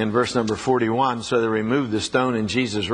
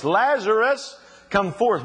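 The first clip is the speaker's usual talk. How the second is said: calling the name out, pitched much higher; raised, commanding call with a rise on Lazarus; loud call; 8 semitones higher, slower than usual. Retold or imitated. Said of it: "He said in a loud voice".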